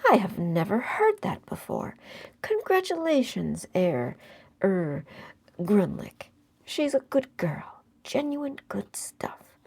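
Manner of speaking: put-on a lively old seaman, cheerfully surprised; sprightly. A narrator's reading. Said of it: "in a sprightly tone".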